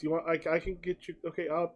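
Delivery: soft, hesitant mumble; a flustered waiter backing off; nervous server. Acted.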